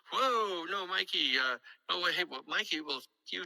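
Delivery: mock balking at a demand; retold protest. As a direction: push back as if on the phone. Acted phone haggle over money.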